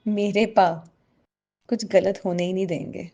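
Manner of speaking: ordinary talk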